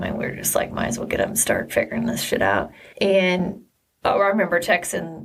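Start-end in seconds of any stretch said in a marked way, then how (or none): 0.7-2.7 weary whisper. Retold or imitated. Retold weary resolve.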